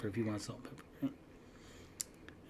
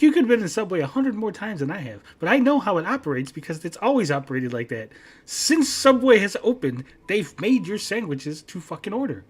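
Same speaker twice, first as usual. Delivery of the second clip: retold heated rebuttal, pitched up; 5 semitones higher than usual. Son telling dad how Subway works, heated. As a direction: argue it out, slowing down for emphasis. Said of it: "we're getting mad and we're getting heated".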